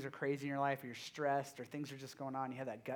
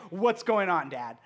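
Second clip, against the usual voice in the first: retold stressed daughter; 3 semitones higher, 9 dB louder, slower than usual. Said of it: "stress level here".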